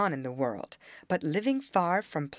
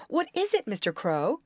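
eager question; 6 semitones higher than usual. Acted. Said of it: "Brownie Beaver exclaimed".

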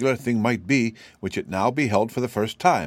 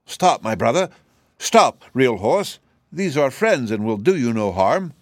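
a louder, urgent call to stop; crying out; 4 semitones higher, 4 dB louder than usual. Acted. Sawhorse stopping the fleeing cab horse, crying out urgently. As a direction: call him back urgently. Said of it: "cried out".

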